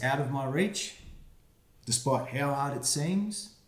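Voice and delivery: put-on reading to children. Reads rhyming picture book aloud.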